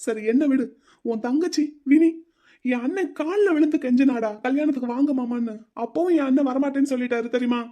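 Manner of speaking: angry retort. Acted. Groom rages about sister Vini.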